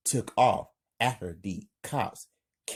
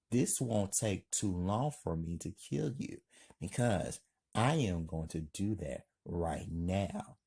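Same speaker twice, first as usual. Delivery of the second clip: soft, calm menace; understated, hushed killer's warning; quiet threat; 5 dB quieter than usual. Acted. Killer calmly threatens the victim.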